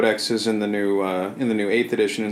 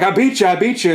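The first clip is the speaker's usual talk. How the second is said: imitated boast, pitched up; mock gloating; 7 semitones higher, 3 dB louder than usual. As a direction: crow it in a higher voice. Retold Angron boasting of victory.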